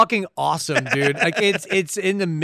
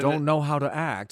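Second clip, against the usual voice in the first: put-on Scottish accent, slow and soft; Sean Connery impression; 3 dB quieter than usual. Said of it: "Was that Sean Connery doing that".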